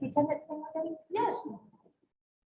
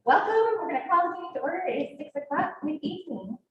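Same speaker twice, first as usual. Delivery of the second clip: projected mom voice; 4 semitones higher, faster than usual. Real, not acted. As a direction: project it like a mom calling the room to order. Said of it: "I'm just gonna project and use my mom voice".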